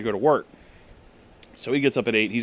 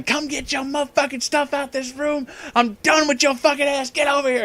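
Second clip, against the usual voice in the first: mock yell; 12 semitones higher than usual. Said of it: "is just yelling".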